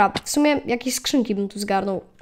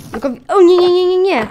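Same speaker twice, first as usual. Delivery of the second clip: high, loud panicked protest; real gamer panic, high and loud; 8 semitones higher, 9 dB louder than usual. Real, not acted. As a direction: cry out in sudden alarm. Mob attacking in game.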